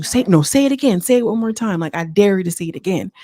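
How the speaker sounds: lightly voiced mom issuing a dare; challenging mom. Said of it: "that thing that your mom do".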